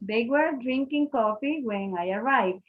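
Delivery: "They were drinking coffee when I arrived" said slowly, word by word, as a teacher's model; slow model sentence. Shown as a demonstration. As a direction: spell it out slowly for the class to copy. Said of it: "¿Creen ustedes que pueden pasar a preguntas?".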